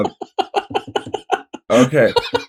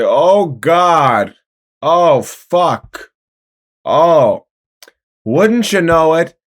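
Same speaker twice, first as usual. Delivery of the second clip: slow, drawn-out morning musing; weary monologue; 3 semitones higher, much slower than usual. Acted. MacArthur facing the blob, slow and weary. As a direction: savor the dull Tuesday. Character's deadpan Twin Peaks monologue.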